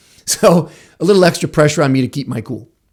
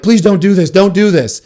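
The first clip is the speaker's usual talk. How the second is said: high, loud pleading; pleading friends; 5 semitones higher, 5 dB louder than usual. Retold or imitated. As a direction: beg him not to do it. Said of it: "watching in horror".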